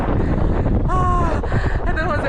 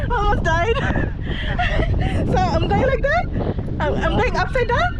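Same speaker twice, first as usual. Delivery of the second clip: on a roller coaster; 6 semitones higher than usual. Real, not acted. Hanging upside down mid-jump.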